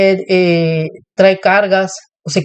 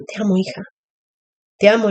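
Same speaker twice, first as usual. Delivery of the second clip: tender; 4 dB quieter, faster than usual. Retold or imitated. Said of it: "y al final le dije".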